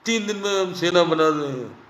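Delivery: lightly voiced pompous boast; a hint of a bragging leader; mock boast quote. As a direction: mimic a hollow promise. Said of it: "और".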